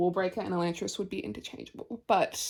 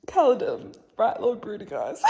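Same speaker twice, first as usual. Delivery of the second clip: laughing at the nickname; 2 semitones higher, 6 dB louder than usual. Real, not acted. Quoting nickname she finds funny.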